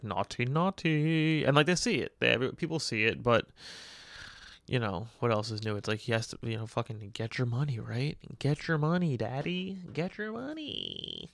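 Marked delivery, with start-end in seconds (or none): 0.0-1.4 slow, sing-song "naughty, naughty"; tut-tut them lightly and slowly; mock scolding. Imitating people mildly scolding a hypocrite, slow and teasing. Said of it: "people are just like". 9.2-11.3 high, slow, much softer "get your money"; put-on cooing voice. Mocking the star chasing cash in a slow, high, soft voice. Repeating a catchphrase.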